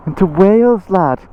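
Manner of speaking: a weak, put-on Welsh lilt on "into Wales, lad"; bad Welsh accent. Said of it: "That was the worst Welsh accent".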